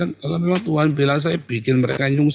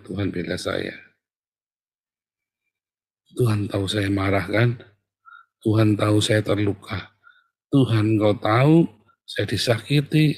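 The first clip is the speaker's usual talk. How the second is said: calm pleading prayer; 4 semitones lower than usual. Acted. Modelling a calmed prayer of the wounded.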